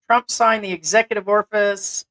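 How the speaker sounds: jokey British "orfice" for office; British accent, "orfice" with a drawn r; mock British accent. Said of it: "That is my British accent".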